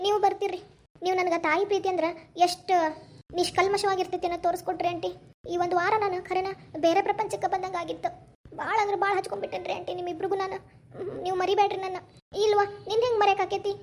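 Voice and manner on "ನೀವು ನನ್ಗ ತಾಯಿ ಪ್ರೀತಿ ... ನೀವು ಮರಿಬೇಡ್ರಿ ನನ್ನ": touched, subdued farewell, growing softer; mildly tearful. Acted. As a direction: thank them with a touch of held-back tears. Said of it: "ಹಂಗ್ ಅಳಬಾರ್ದ್ವಾ". (ಸ್ವಲ್ಪ ಗದ್ಗದಿತವಾಗಿ)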